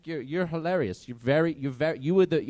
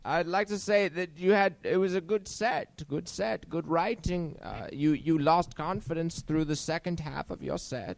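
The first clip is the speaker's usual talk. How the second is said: put-on accent sliding from British to German; wobbly mock British turning German; shifting British-German accent. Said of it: "He sounds British and then German".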